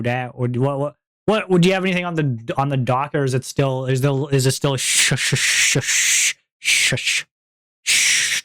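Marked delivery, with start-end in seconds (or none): 4.8-8.4 breathy whispered shushing. Acted. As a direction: hush them playfully. Playful shushing at chat.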